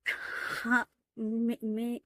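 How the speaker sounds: hushed, nervous stammering; a guilty father fumbling for words; caught-out stammer. Acted. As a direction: stammer like a dad caught red-handed.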